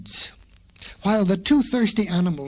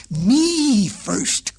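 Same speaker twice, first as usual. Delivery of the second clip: higher, louder goat voice; goat crying out; 6 semitones higher, 5 dB louder than usual. A narrator's reading. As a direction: bleat it back, insisting. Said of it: "cried the goat".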